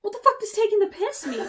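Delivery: loud, laughing disbelief; what on earth, laughing loudly; baffled outburst. Real, not acted. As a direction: blurt it out, half laughing. Baffled at British slang.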